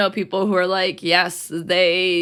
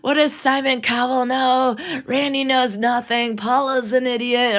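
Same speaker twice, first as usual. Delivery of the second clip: mock-indignant contestant; 5 semitones higher than usual. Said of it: "They're like".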